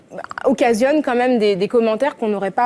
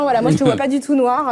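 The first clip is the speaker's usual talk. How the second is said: lightly voiced, laughing mock reassurance; a hint of a condescending acquaintance, laughing; mock well-meaning person; 3 semitones higher than usual. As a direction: imitate the clumsy compliment with a laugh. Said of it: "ça, c'est ce qu'on entend".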